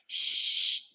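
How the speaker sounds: unvoiced group hush; whispered shh; shushing together. A narrator's reading. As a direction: everyone hushes at once. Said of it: "said everyone".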